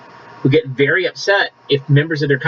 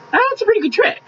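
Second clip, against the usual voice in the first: sarcastic quip. Acted. Sarcastic aside on Pharisees.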